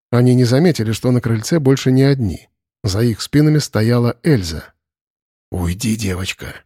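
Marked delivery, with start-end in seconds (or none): 5.5-6.6 low, soft whisper without turning. A narrator's reading. Arkhip to Elza, low whisper. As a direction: hush her away gently. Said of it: "прошептал Архип".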